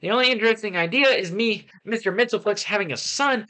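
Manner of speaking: exasperated, animated review read-out; lively, indignant rant with jumping pitch. Acted. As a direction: rattle off a worked-up complaint. Reads out own ranting review.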